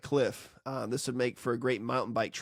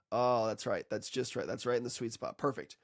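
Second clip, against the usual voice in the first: satisfied compressor; 2 semitones lower, 3 dB quieter than usual. Acted. Compressor back on target, acted soft satisfaction. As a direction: settle softly into place, pleased. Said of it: "And then guess what".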